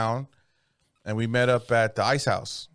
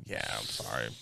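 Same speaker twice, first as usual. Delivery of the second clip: much softer, low fake-sorry; muttered apology; 13 semitones lower, 13 dB quieter than usual. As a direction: mumble a mock apology. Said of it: "I'm like".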